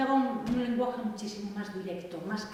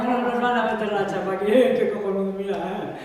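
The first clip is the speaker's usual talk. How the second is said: loud, laughing imitation of amused teenagers; loud mock reaction through laughter; teenage audience laughing; 11 dB louder than usual. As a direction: play a relieved teen crowd cracking up. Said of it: "relajar al público, adolescente".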